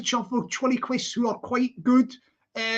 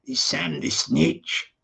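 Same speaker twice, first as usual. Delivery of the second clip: nervous actor's line; 8 semitones lower, slower than usual. Acted. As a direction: mumble the line like a shy extra. Humble plays his movie line.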